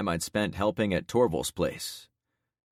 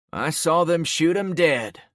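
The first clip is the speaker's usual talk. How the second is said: shaken witness; 10 semitones higher, 7 dB louder than usual. Acted. Witness in crowd speaks.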